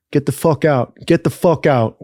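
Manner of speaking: understated imitation of an aggressive order; super aggressive. Cop ordering men out at the motel, mildly aggressive. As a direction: retell a curt order without raising the voice. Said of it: "Like, super aggressive".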